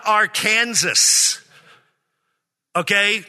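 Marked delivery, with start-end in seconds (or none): 0.1-1.4 Arkansas said like "are-Kansas"; wrong pronunciation. Shown as a demonstration. Preacher warning those from the West, Arkansas mispronounced as "ar-KAN-zus". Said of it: "it's not Arkansas".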